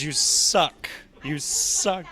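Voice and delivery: playful jeer, pitch up; mock taunt. Actor jeering at booth crew who keep missing. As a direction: tease them for missing every throw.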